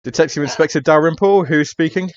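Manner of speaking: detective picking up the phone, curt; gruff detective on phone. Acted. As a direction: answer the phone like a busy inspector. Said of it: "ring our police detective up".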